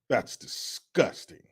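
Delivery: slow, whispered mock horror; slow whispered fake revulsion; slow whispered disgust. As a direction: drag it out in a hushed sneer. Slower whispered repeat.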